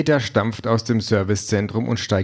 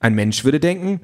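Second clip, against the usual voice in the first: slightly raised, keen chatty voice; eager talking car; 3 semitones higher than usual. Acted. Car pesters reluctant Peter with topics, lightly eager voice. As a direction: push the small talk a bit too keenly. Car lectures on human reactions.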